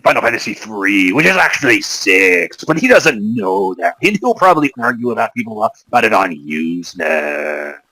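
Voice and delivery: lightly voiced ad announcer; TV commercial announcer voice. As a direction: pitch it like a TV ad. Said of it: "I'm still talking like this".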